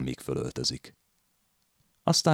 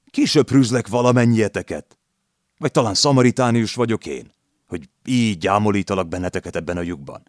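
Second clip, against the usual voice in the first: loud, much higher furious shouting; furious landlady; 6 semitones higher, 5 dB louder than usual. A narrator's reading. Landlady shrieks at the lodgers, loud and higher. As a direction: scream them out of the room. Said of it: "Az asszony már egészen nekivadult".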